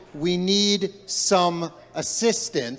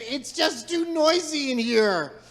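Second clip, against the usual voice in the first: higher, slow, fed-up cry; fed-up blacksmith, slowly and higher; exasperated outburst; 7 semitones higher, slower than usual. Acted. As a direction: throw up your hands, drawn out. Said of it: "he raised his hand and said".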